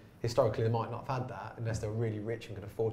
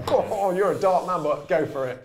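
movie character voice; 7 semitones higher, 8 dB louder, slower than usual. Retold or imitated. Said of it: "they're like".

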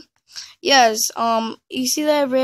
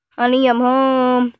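loud, slow call through the house; drawn-out loud call, honey I'm home; 2 semitones higher, 10 dB louder, slower than usual. Pretend.

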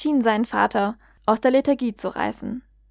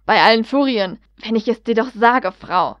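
angry outburst; 4 dB louder than usual. Acted. Father slams fist, shouts.

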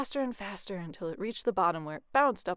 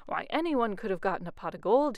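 bragging; 4 dB louder than usual. Acted. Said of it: "he bragged".

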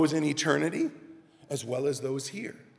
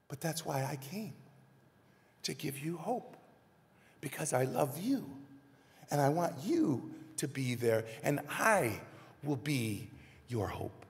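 softer, slowing, loving promise; tender reassurance; 3 semitones lower, 6 dB quieter than usual. Acted. Heavenly Father promising his children hope, tender and soft. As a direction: give hope gently, leaving pauses between phrases.

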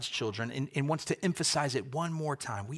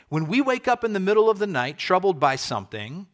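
louder, faster, higher push on the night-waking picture; urgent preaching; 5 semitones higher, 8 dB louder than usual. Acted. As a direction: lean in hard, speeding up. Preacher painting a midnight worry.

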